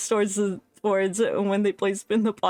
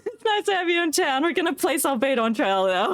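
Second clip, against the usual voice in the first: raised, sing-song game character voice; mock NPC voice; 5 semitones higher, faster than usual. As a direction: parrot the townsfolk brightly. Mimicking the game character's line.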